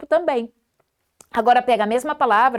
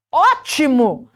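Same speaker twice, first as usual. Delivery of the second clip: "ótimo" esticado depois de uma pausa; ênfase positiva; 2 semitones higher, 4 dB louder, slower than usual. Shown as a demonstration. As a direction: solte "ótimo" com gosto. Palavra positiva após pausa. ("ótimo" lento e enfático)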